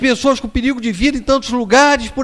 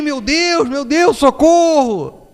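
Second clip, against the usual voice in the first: mock panicked yell for God and help, higher and drawn out slowly; imitating a scream for help; 5 semitones higher, much slower than usual. Passenger in a spinning plane cries for help, mock panicked yell. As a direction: ham up a passenger's cry in a plunging plane. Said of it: "ele começou a gritar também".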